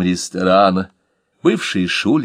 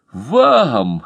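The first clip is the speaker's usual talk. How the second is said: joyful; 3 semitones higher, 4 dB louder than usual. Acted. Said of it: "радостно вскочил".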